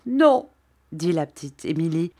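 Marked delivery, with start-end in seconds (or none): 0.1-0.5 high, loud acted sobbing protest; tearful high outburst. A narrator's reading. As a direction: cry it out through mock sobs. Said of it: "en sanglotant et en secouant la tête".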